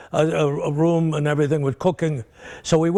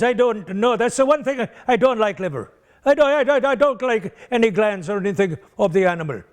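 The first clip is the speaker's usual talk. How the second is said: voicing the priest; 5 semitones higher than usual. Priest answers from the front row.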